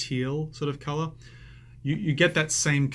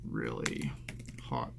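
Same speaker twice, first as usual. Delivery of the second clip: much lower, dramatic deep voice on really hot; mock deep voice; 14 semitones lower, 8 dB quieter, slower than usual. Shown as a demonstration. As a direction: drop into a deep joking growl. Joking deep-voiced emphasis on hot.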